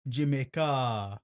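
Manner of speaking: drawn-out Jamaican lilt; Jamaican accent. Shown as a demonstration. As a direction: stretch it out like a Jamaican. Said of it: "Jamaican accent, it sounds like Jamaica".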